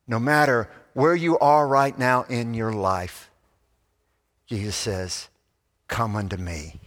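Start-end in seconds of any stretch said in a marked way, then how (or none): 5.9-6.8 low, soft, in one unbroken phrase; gentle invitation. Acted. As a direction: invite tenderly without pausing.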